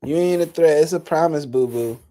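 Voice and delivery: sassier, punchier mock repeat; mocking ratchet voice. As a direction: throw it back with petty attitude. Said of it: "like a little ratchet bitch to say".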